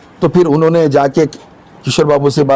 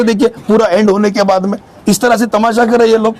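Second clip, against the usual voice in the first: real exasperation, pitched higher; fed-up, higher-pitched scolding; indignant rebuke; 4 semitones higher than usual. Real, not acted. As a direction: protest indignantly in a raised pitch. Indignant vendor rebuking officials' interference.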